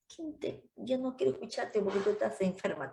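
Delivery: quick dismissive husband, lightly voiced; husband's retort. Sister imitating a fed-up husband, mildly. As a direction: brush her off like an annoyed husband. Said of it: "te va a decir".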